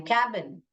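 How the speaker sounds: कैबिन with open "a", as "KAB-in"; correct short-A reading. Shown as a demonstration. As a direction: say कैबिन with the vowel of "cat". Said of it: "कैबिन बोलते हैं हम".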